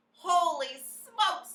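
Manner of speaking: drawn-out loud high yell; slow, shocked holler; a cook yelling in alarm. A narrator's reading. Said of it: "the man was yelling".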